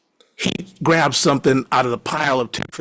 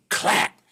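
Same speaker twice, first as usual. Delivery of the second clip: imitated crack; 5 semitones higher than usual. Imitating nightstand hitting the ground.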